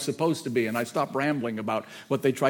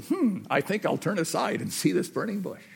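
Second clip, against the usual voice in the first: slightly higher, musing quote; musing Moses; 4 semitones higher, 4 dB quieter than usual. Retold or imitated. Moses noticing the burning bush, musing. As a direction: think it over aloud, starting with a hmm. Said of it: "and he said".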